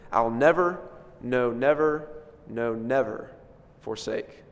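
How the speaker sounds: each never leaned on, fading out at forsake; preacher savoring each never in the hymn; emphatic repeated never. Retold or imitated. Hymn line quoted to the congregation, each never stressed. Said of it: "and here he says it".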